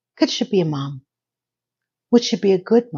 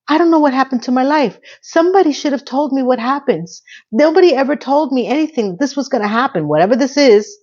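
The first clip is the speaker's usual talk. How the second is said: high, agitated rant; mild mock panic about lost life; freaking out; 6 semitones higher than usual. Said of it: "Laney is freaking out".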